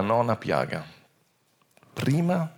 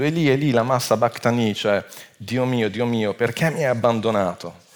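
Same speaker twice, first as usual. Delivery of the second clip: a raised, loud cry of anguish; 2 semitones higher, 5 dB louder than usual. Retold or imitated. Preacher voicing Jesus crying out on the cross, loud. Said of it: "Gesù gridò con gran voce".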